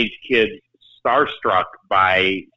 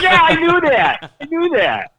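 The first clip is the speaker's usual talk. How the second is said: much higher, sheepish mock-fan voice; embarrassed fan; 5 dB louder than usual. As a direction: play the flustered fan covering up. Fan's embarrassed cover-up.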